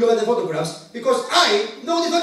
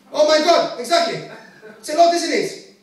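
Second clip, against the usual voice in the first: excited; 8 semitones higher, 6 dB louder than usual. Real, not acted. Reacting to the audience.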